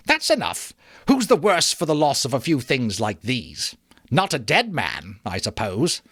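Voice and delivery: a touch of scorn; defiant woman. Acted. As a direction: wave the guilt away. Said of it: "cried the woman".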